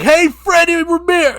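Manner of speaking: high, loud calling out; rock-singer yell. Acted. A singer calling out his opponent, shouting. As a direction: holler the name across a ring.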